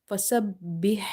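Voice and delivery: "bih" ending in a h from mid-throat; throaty ha. Shown as a demonstration. Teacher showing where ha comes from, mid-throat h. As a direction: end "bih" with breath from the middle of the throat. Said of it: "should be from the middle of the throat".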